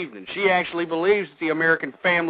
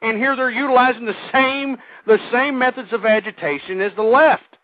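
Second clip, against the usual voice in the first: angry rant; 5 semitones higher than usual. Real, not acted. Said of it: "that's why I'm so angry".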